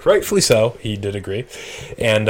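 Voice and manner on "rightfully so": cop's deadpan. Retold or imitated. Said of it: "And he's like, "Rightfully so".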